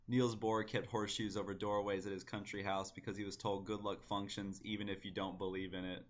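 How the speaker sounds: even, measured recital of a poem; poem reading. Acted. Poet reading own poem to online viewers, measured recital. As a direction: read the verse out steadily and evenly.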